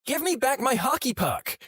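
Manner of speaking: put-on very high child's squeal at no real volume; squeaky, hammed-up childish demand; high-pitched mock yell. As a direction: imitate an angry kid yelling in a high voice. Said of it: "yelled in my high-pitched voice".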